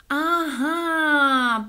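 high, drawn-out aha; scheming realisation. A narrator's reading. Соня thinks of a trap for the echo, gleeful aha. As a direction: stretch it out as a plan dawns. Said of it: "подумала Соня".

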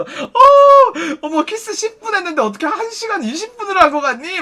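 high, shrieked "어" into gossipy disbelief; catty mock surprise. Kiss-room coworkers gossiping about a customer, catty mock surprise. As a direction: open on a loud high gasp of mock shock, then gossip.

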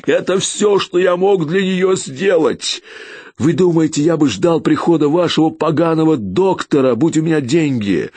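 grief-stricken fury; anguished outburst. A narrator's reading. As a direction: pour out the loss, voice straining. Grieving father rages at inspector.

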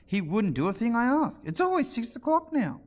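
high, plaintive Hatter lament; theatrical mournful complaint. A narrator's reading. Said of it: "went on in a mournful tone".

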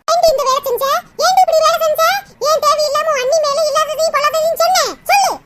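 angry demand. Acted. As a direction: demand an explanation from your daughter, angrily. Mother interrogates her guilty daughter. (கோபமாக அதட்டிக் கேட்டல்)

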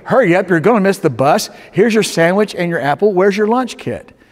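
acted mild yell; yelling mother. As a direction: rush them along like an exasperated mother. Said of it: "and she's yelling".

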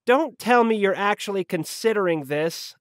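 high, exasperated secretary voice; annoyed call. A narrator's reading. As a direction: call out in high-pitched irritation. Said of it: "an annoyed voice called from the other room".

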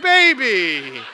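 loud laughing protest; laughing plea. Retold or imitated. Husband laughingly protesting to his wife. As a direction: laugh through a playful whine.

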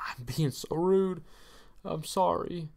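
hushed, whispered aside. Acted. Host apologising to viewers for his rudeness, whispered. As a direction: drop to a guilty whisper.

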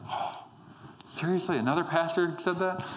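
a weary saint sighing at a pastor, a touch put-on; Thomas exasperated. Thomas in heaven hearing another pastor, mock exasperated. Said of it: "The poor guy's probably with the Lord right now like".

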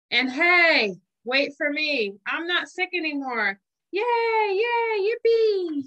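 put-on a boy thrilled to be well, yippee; excited. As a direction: cheer as you run to school. Simon excited back to school.

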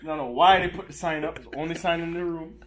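lightly put-on Caribbean accent. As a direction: tour guide in a mild Caribbean lilt. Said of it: "Can you do it in the accent?".

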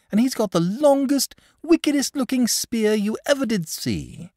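put-on high, eager boyish voice; excited boy. A narrator's reading. Boy eagerly warning the dragon of Saint George. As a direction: bubble over with the news.

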